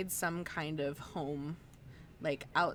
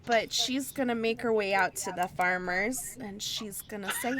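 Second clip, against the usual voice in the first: put-on Midwestern accent; 4 semitones higher, 6 dB louder than usual. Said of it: "a Midwestern accent".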